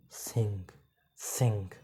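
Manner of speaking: सिंग whispered with a nasal ng at the end; quiet सिंग ending in a nasal ng; soft nasal ng. Shown as a demonstration. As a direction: breathe सिंग out softly ending in ng. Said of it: "इसको ऐसे लिखेंगे".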